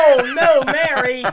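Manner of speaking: loud, high burst of dismay; loud laughing "oh no" at the news; real surprise. Real, not acted. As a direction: blurt it out, shocked and amused. Friend drowned her phone.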